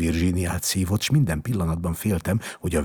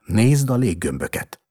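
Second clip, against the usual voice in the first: loud, higher, coaxing call; 5 semitones higher, 7 dB louder than usual. A narrator's reading. Doctor showing the sick boy balloons, calling out. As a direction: urge the child to look.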